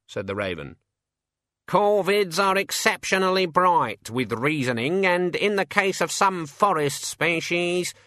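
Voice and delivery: high, slow pompous bird; indignant raven. A narrator's reading. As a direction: lecture proudly as an offended raven.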